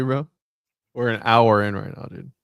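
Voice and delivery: normal talking voice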